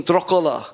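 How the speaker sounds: Dracula as DROCK-a-la with an open o; Irish pronunciation. Shown as a demonstration. Guest shows how the Irish word sounds: Dracula, DROCK-a-la. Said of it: "bad blood".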